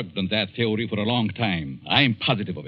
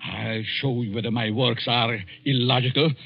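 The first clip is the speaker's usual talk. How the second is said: rising anger. Acted. Professor insulted by the editor, angry outburst. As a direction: flare up in indignant fury. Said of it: "Oh, calm down".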